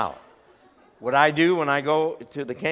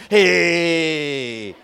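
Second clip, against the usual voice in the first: mock sweet talk; 7 dB louder, much slower than usual. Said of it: "walk up to 'em ... and say".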